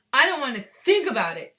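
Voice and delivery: high, loud distressed outburst; shriek. A narrator's reading. Mother refusing to imagine it, shrieking. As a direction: shriek it, swooping up loudly. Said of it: "shrieked Missus Gloop".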